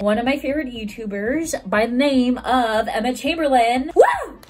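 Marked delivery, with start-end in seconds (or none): 3.9-4.4 high, loud whoop of delight; excited woo. Real, not acted. Opening her coffee unboxing, a loud excited whoop. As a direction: cheer like the package just arrived.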